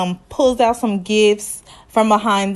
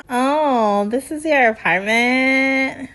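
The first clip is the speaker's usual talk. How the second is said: imitated snooty surprise, pitched up; condescending; 4 semitones higher, slower than usual. Woman seeing her date's apartment, mock condescending. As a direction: look down on the place as you ask. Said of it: "It was so condescending".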